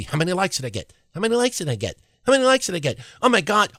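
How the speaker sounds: hushed, climbing obsessive mumble; mock needy poster. Host mimics goofs hitting reload, mock needy fretting. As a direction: repeat it softly, pitch rising each time.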